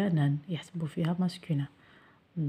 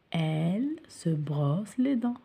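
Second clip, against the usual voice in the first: whispered repeat; much slower than usual. Shown as a demonstration.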